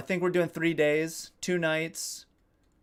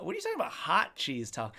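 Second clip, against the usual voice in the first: baffled; 4 dB quieter than usual. Real, not acted. Baffled by a chat comment.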